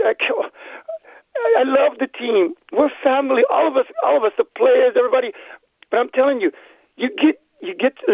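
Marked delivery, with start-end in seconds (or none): 0.0-5.3 fighting tears through the words; crying. Real, not acted. Devoted fan to the host, close to tears. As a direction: voice breaking, pitch up. Emotional caller breaks down.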